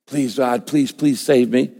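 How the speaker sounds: slow, understated plea; mock begging. Preacher mimicking someone begging God to save them, mild pleading. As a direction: plead slowly, only lightly acted. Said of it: "You don't have to beg".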